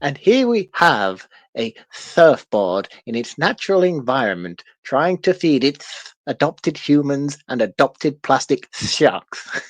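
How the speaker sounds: mild, hushed nature narrator; a failed go at a documentary voice; attempted Attenborough. Reading a listener caption as a nature narrator, lightly voiced. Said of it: "wasn't David Attenborough".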